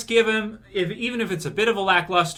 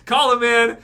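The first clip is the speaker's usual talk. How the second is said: laughing while talking; 5 semitones higher, 6 dB louder than usual. Real, not acted. Laughing at his own idea.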